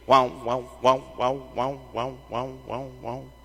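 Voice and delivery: tremolo sound. Shown as a demonstration. Preacher imitates a guitar tremolo for the church, wavering wah wah fading out. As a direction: mimic a tremolo effect with your voice, letting it die out. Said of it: "se oye".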